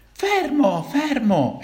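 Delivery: urlato alto e forte; grido di militare. A narrator's reading. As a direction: ordina di fermarsi gridando. Militari che inseguono i ragazzi. (militare che grida fermo)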